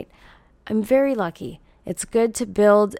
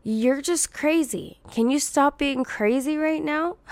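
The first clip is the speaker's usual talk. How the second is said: dismissive mocking voice; 6 semitones higher than usual. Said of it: "and then they go".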